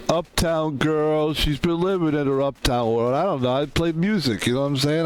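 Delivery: lightly voiced street-tough New York accent for a piano star; a hint of New York street swagger, mocking; mock street talk. Streamer mocks rich musician, light New York street accent. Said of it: "they all talk like, uh, like criminals".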